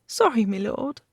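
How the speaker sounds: put-on high girl's voice, pinched nose; nasal apology. A narrator's reading. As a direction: speak with nostrils pinched. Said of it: "she said nasally".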